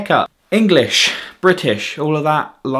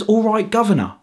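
higher-pitched quoted Cockney greeting; mock Cockney accent; 4 semitones higher than usual. Brit asking who the hell says that, mock Cockney. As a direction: lightly mimic a Cockney stereotype. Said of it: "We don't sound like that".

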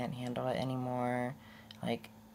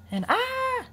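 hiccup squeak; 7 dB louder than usual. Real, not acted. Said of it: "hiccups and whatnots".

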